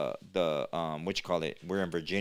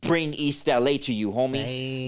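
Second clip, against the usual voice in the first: louder, boastful East LA pride; proud swagger; 3 semitones higher, 5 dB louder than usual. Retold or imitated. Telling the co-host how he repped East LA, louder and proud. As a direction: puff up and brag about repping home. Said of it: "I'm all proud".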